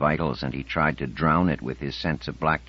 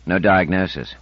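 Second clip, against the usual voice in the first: rueful; 3 semitones higher, 6 dB louder than usual. Acted. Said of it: "he said ruefully".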